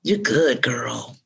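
reassuring yourself in your own voice, dropping at the end; understated self-encouragement, falling away on the last word; own-voice reassurance. Acted. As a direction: tell yourself it's fine, in your natural register. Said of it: "in my own voice".

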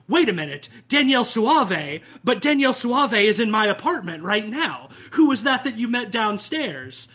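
hammed-up sudden alarm, as if the danger just dawned; agent's friend realizing the killer is upstairs, mock panic; alarmed realization. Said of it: "And she's like".

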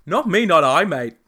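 loud, high mock Australian accent; hammed-up Australian impression. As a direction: overdo the Aussie, then toss off "mate". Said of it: "sound better in an Australian accent".

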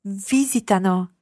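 visitano with VI stressed; careful model of VI-si-ta-no; stress on first syllable. Shown as a demonstration. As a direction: lead with VI in visitano. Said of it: "just watch your accent on the third person plural".

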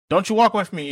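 mock angry yell. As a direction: snap it like a furious parent chasing after you. Retold argument, parent yelling.

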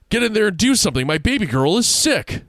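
high, loud panicked mother; desperate mother screaming at the deputy; frantic screaming mother. Acted. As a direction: shriek for help for her sick girl. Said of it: "Missus Paulson was screaming".

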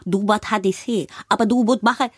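mimicking the coach's Asian accent, „musst“ said like „bot“; imitating the accent coach. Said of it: "die hat immer gesagt". (Nachahmung der Sprachberaterin mit asiatischem Akzent)

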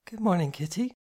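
greeting lilting up on morning; sleepy, gentle morning greeting; soft sleepy murmur. A narrator's reading. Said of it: "she murmured".

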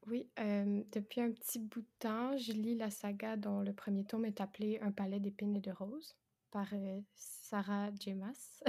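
rough just-woke-up voice with vocal fry; husky morning voice. Real, not acted. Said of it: "c'est ma voix du matin".

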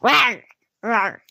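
short, lightly voiced monster rawrs; two little mock growls. A narrator's reading. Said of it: "And it said".

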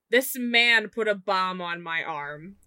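a touch of a desperate plea; urgent Karma. Acted. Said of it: "and say".

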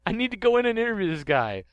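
high, loud startled professor; a flustered scientist knocked over, squeaking; Professor Sycamore voice. Acted. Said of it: "Hi, I'm Professor Sycamore".

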